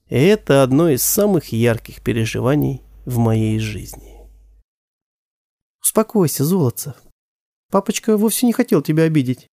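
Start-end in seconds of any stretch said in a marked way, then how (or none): 5.8-9.5 higher, gentle reassurance; calm the boy down; soothing mother. Acted. Mother to son, gently soothing.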